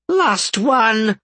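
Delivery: high squeaky imp calling out. A narrator's reading. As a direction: squeak it out loud and quick. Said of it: "Bob called out".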